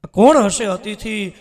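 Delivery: dazzled by the guest's beauty; awed wonder. A narrator's reading. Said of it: "વિચારમાં પડી ગયા કે". (આશ્ચર્યભર્યો, વિસ્મિત સ્વર)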